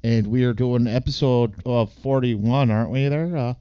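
light put-on Canadian accent; hint of a Canadian accent, hockey movie style. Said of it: "the reason why we're talking like this is 'cause we're doing Goon".

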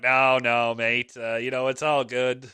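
easygoing English bloke, lightly imitated; English accent. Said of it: "sorry about the English accent there".

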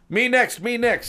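very high, loud squeal; eager sales rep. Acted. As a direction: bounce in for your turn. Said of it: "says the sales rep".

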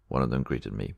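ordinary delivery

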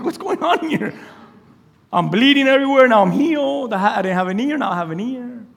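mock confusion; confused guard. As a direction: play a baffled soldier, lightly. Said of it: "Imagine how confused the Roman guard was".

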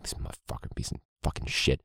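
whispered curse under the breath; muttering. Retold or imitated. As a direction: hiss it under your breath, seething. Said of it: "I was like muttering".

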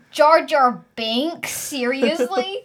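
slow disbelieving question; incredulous. Real, not acted. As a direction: scoff at the idea slowly. Mocking the Jar Jar question.

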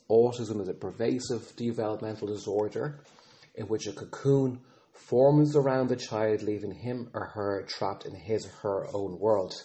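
flat, mechanical recitation like a robot; robotic voice. Retold or imitated. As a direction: recite it by rote like a machine. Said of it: "she says in a very robotical voice".

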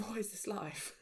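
half-laughed whispered disbelief; laughing whisper. Retold or imitated. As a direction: breathe it out through a laugh. Exasperated quote to universe, laughing.

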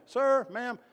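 lightly imitated Italian caller; Italian accent. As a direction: hail someone in an Italian accent. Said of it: "with a heavy Italian accent".

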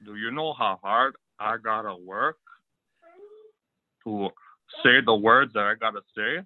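lightly voiced macho wrestler promo; a hint of a cocky wrestling heel; Razor Ramon promo. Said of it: "cutting a promo in character of your favorite eighties character".

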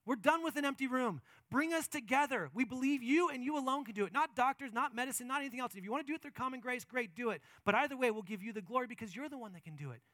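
loud, confident plea to God; bold prayer. Shown as a demonstration. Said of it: "we should ask boldly, confidently".

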